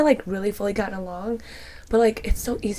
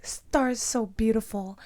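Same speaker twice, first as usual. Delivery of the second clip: put-on toddler voice; slower than usual. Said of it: "He's using words like".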